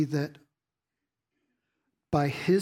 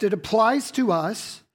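ordinary talk

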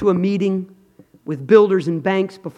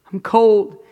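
louder; 4 semitones higher, 5 dB louder than usual. Retold or imitated. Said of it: "God, I".

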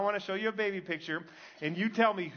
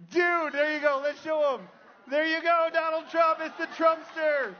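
much higher and louder, thrilled host call-out; excited reveal; 7 semitones higher, 5 dB louder than usual. Real, not acted. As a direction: whoop it out like a game-show host. Revealing Trump lookalike, crowd reacts.

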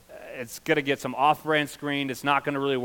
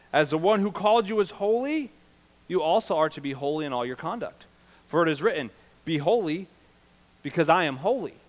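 raised, ringing Bible reading; emphatic scripture preaching; 5 semitones higher, 5 dB louder than usual. Real, not acted. Pastor reading the call to be holy, emphatic preaching. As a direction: proclaim the verse to the congregation.

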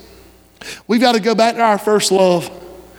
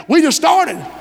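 raised, emphatic cry; preaching shout; 4 semitones higher than usual. Real, not acted. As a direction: shout it out to the congregation. Preacher exclaims in sermon.

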